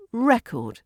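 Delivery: "record" as REC-ord, high start then falling; noun stress. Shown as a demonstration. Teacher repeats for learners, "record" stressed on REC. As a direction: hit the first syllable of "record". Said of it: "if you put the stress".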